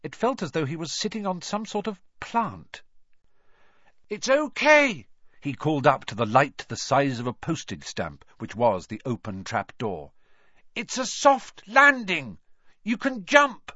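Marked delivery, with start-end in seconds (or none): 4.1-5.1 slow high call up to the trapdoor. Acted. Boy calling up through the trapdoor to friends, slow high call. 10.7-13.7 high voice thrown up a shaft; calling up. Acted. Harry calling up to Ron, high reassuring call.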